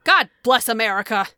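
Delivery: mock curse. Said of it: "they would go".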